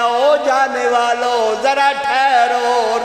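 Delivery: loud, slow call after them. Acted. Ibrahim calls to the departing men, slow loud call.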